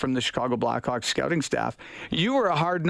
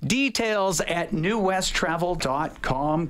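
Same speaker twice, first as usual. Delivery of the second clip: upbeat sponsor read, a touch higher, slowing for the web address; radio ad read; 3 semitones higher than usual. Acted. Host reads the travel sponsor spot to listeners, upbeat ad voice. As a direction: sell the trip like a host reading a live spot.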